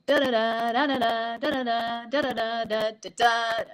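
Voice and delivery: "Da, da, da" chanted in a lilting, rocking rhythm; rolling run of "da, da, da" groups in steady rhythm; seesaw rhythm. Shown as a demonstration. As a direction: chant "da, da, da" like a seesaw, through to the final da. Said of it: "like a little bit of a seesaw".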